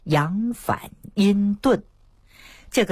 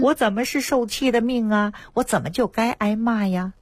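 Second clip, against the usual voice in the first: higher-pitched, mildly wailing complaint; mock tearful protest; 6 semitones higher than usual. Scolded patient protesting to her doctor through tears, retold mock tearful protest. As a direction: imitate a crying woman protesting her lot. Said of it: "这下子他呜呜呜的就哭啊".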